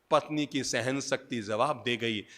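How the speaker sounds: ordinary delivery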